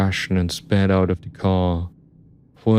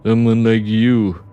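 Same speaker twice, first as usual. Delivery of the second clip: lightly voiced menacing driver; taunting tough driver; 3 semitones higher, 4 dB louder than usual. Driver doubts the narrator will shoot, taunting.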